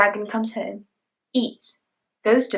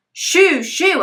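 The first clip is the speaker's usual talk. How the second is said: shooing cat away; 8 semitones higher, 5 dB louder than usual. Acted. Mother dragon shooing cat.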